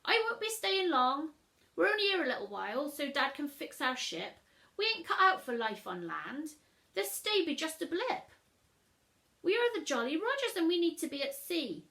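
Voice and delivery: loud, high hearty pirate; proud pirate boy. Acted. Jim answering the teacher, proud pirate voice. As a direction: declare it with pirate pride.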